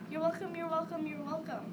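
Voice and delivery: high, loud start that settles down; crying out. A narrator's reading. Ralph answers his brother's thanks, crying out. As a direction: exclaim it over and over. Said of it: "Then Ralph cried".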